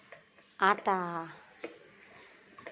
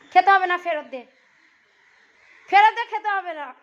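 scolding; 6 dB louder than usual. Real, not acted. Mother scolds child over lassi. (জোরে বকুনি)

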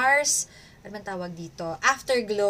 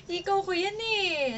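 laughing; 9 semitones higher than usual. Real, not acted. Laughing at the husband.

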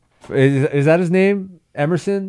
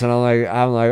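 ordinary talk, nothing marked

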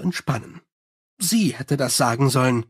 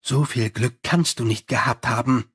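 growled; 4 semitones lower than usual. Acted. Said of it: "knurrte Angua".

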